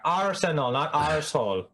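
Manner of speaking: "Arsenal" pronounced carefully, set against "arsehole"; pointed correction. Acted. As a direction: correct the slip, making "Arsenal" and "arsehole" distinct. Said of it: "you misspoke there".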